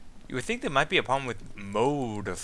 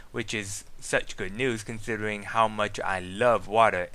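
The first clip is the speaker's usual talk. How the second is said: lower-pitched, dry sarcasm; sarcastic; 4 semitones lower than usual. Acted. Diary writer who claims to love water, understated sarcastic voice. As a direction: feign delight with understated sarcasm. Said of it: "that was my sarcastic voice".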